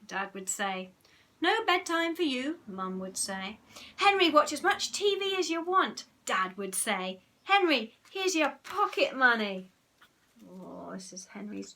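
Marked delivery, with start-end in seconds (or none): 1.4-2.6 mum's voice. Acted. Mum voiced in fantasy. 4.0-6.0 dad's voice. Acted. Dad voiced in fantasy. 7.4-9.7 dad's voice. Acted. Dad voiced in fantasy.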